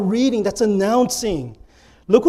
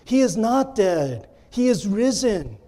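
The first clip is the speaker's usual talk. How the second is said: measured, insistent convincing; earnestly persuading; 4 semitones higher than usual. Acted. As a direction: plead with a doubter, phrase by phrase. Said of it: "they were earnestly persuading him".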